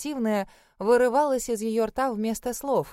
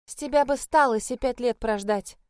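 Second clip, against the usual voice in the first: ruthless; 3 semitones higher, 4 dB louder than usual. Acted. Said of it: "безжалостно отрезала сестра".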